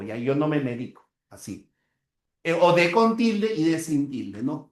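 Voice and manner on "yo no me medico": quicker example, "medico" stressed on DI; stress on middle syllable. Shown as a demonstration. Teacher repeating the example quickly, "medico" stressed on DI. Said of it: "Cambia el acento y cambia el significado".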